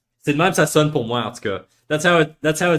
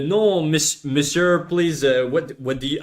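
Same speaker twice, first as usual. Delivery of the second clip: put-on halting, half-hearted French accent; badly faked French accent; attempted French accent. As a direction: fumble at a mock French accent. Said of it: "I can't do a fucking French accent".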